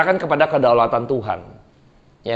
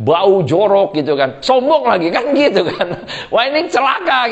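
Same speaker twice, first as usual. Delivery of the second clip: laughing; 2 semitones higher than usual. Real, not acted. Preacher laughing to the congregation while mocking proud poverty. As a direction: laugh at the picture while saying it. Mocking our own shabby arrogance.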